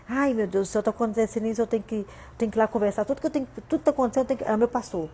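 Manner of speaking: hurried, tumbling imitation of a worried believer; flustered churchgoer. Mimicking a believer who must run to the pastor, flustered and rushed. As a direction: rattle it off, tripping over restarts.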